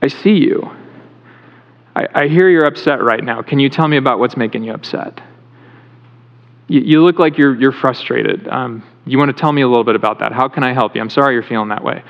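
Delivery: mild reassuring parent voice; gentle, attentive parent. Retold or imitated. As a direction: parent calmly soothing an upset kid, gently. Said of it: "It's another thing to say".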